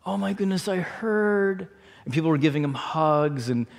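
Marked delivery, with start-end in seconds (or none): 0.1-1.7 higher, sympathetic gasp of concern; imitated sympathy; soft condolences. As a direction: console a friend in a raised, soft voice. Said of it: "these soft condolences".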